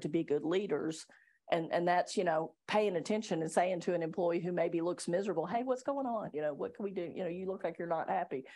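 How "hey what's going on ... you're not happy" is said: softly spoken check-in; gentle concern. Acted. Leader to a miserable-looking employee, gently concerned. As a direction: ask quietly, as a caring boss would.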